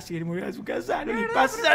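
ordinary talk

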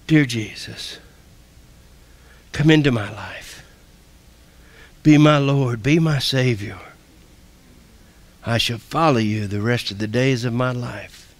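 measured prayer with long pauses; leading prayer. Real, not acted. Preacher leading the salvation prayer for repeating, measured and prayerful. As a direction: lead them phrase by phrase, unhurried.

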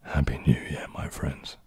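deep, husky whisper of a greeting; really deep voice. Shown as a demonstration. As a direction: go so deep it is barely audible. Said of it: "Can you say with a really deep voice".

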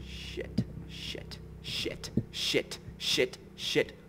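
scared whisper. Real, not acted. Hiding in fear from monster.

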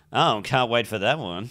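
dry, deadpan and flat; flat sarcastic. Shown as a demonstration. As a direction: say it with no enthusiasm. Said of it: "But if you go".

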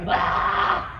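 mock falling scream, held back; airy "aaah" of someone dangling from a cliff; movie cliffhanger cry. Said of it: "And they're like".

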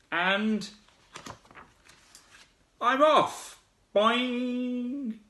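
high squeaky frightened frog; scared little frog voice. Acted. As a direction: squeak it out and flee. Scared small-mouthed frog.

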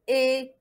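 إي held level as "é"; wrong I, as é. Shown as a demonstration. Teacher showing what not to say, level إي as é. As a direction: hold إي evenly as é, the error. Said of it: "ماشي".

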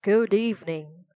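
raspy, menacing bird-king greeting; raspy Raven King. A narrator's reading. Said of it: "he asked in a raspy voice".

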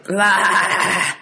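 sharp, throaty "blaa"; throaty goat bleat. A narrator's reading. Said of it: "let out a sharp, throaty".

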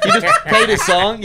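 talking through a laugh; laughing through words. Real, not acted. Friend mocking a singer in court, laughing through words. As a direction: giggle the line out.

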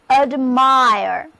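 a clear teacher model, stress on MIRE; model pronunciation. Shown as a demonstration. Teacher modelling admire for students, stress on the second syllable. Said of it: "Now read after me".

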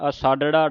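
ਅਸਾਡੜਾ with its retroflex ṛ clearly heard; careful pronunciation. Shown as a demonstration. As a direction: sound the flapped ṛ in ਅਸਾਡੜਾ. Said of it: "ਰਾੜੇ ਦੀ ਆਵਾਜ਼ ਉਚਾਰਨ ਹੋਵੇ".

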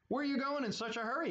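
a quick, nosy graveyard ghoul. Acted. Ghoul voiced in the story.

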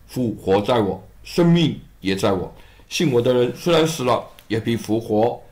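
a hint of a solemn teacher; Jesus' voice. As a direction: speak as Jesus, calm and assured.

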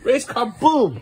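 put-on sing-song kid game voice; playful race car. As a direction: boom it out for the kid. Dad echoes toddler's phrase.

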